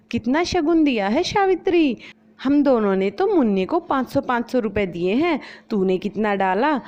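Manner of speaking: pry about the gift money; nosy neighbour. Acted. (चुगलखोर पड़ोसन की ऊँची आवाज़)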